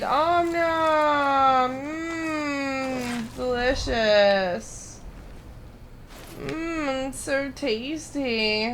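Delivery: slow, savoring monster voice; hungry monster. Pretend. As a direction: gloat over the meal like a beast.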